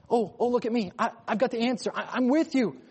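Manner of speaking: a hint of a child volunteering the answer; eager kid-like God. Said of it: "there's a little bit of that here".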